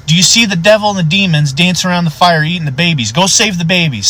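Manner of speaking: high, urgent rush of alarm; frantic pleading. Retold or imitated. Old man describing demons to deputy, urgent pleading. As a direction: imitate a deluded man begging.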